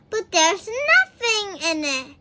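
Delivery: Little Miss Giggles protesting; exclaiming. A narrator's reading. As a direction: blurt it in disbelief. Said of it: "she exclaimed".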